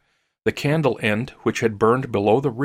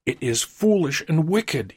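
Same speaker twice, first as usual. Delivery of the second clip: high-pitched, faltering objection; faltering protest; 6 semitones higher than usual. A narrator's reading. Old man afraid of his wife, faltering. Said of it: "he faltered".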